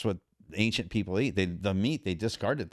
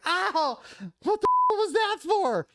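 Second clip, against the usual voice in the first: much higher, louder startled yelp; mock pained yelp; 5 dB louder, slower than usual. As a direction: yelp as if the spoon just hit you. Hit on the hands with spoon.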